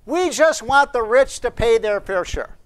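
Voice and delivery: slow, high, loud mock campaign slogan; lightly voiced mock Biden. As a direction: mimic a preachy campaign line. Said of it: "He sounds like Che Guevara".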